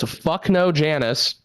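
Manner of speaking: mock a dad's emphatic refusal; imitated gruff dad. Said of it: "a five-foot-six Italian guy with a pot belly".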